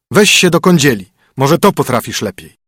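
brisk, bossy husband; stern husband. Acted. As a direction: lay down the rules to the spoiled princess. Husband voice again.

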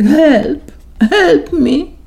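very high, loud cry for help; panicked cry. A narrator's reading. Terrified boy fleeing the talking cow, high loud cry. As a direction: scream it as you run.

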